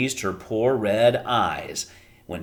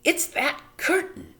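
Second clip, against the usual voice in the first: high, alarmed mother; Homily crying out. A narrator's reading. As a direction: cry out in dismay. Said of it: "cried Homily".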